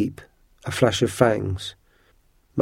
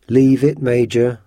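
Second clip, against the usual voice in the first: louder, urgent warning to the dog; a raised warning to a sled dog; sharp warning; 4 dB louder than usual. Acted. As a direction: call the dog off firmly. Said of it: "warned Matt".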